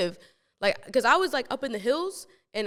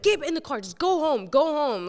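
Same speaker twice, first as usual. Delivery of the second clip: urgent retold order; 5 semitones higher than usual. Friends urge her to leave, retold.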